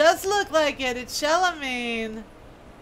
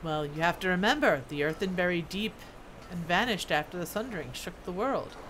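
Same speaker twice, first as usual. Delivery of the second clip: lightly voiced dwarf recounting old history; reminiscing dwarf smith; 3 semitones lower than usual. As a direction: tell it as a veteran craftsman remembering.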